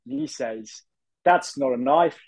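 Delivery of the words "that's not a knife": put-on slow, drawn-out Australian accent; rising, deliberate Australian movie line. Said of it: "that was meant to be an Australian accent".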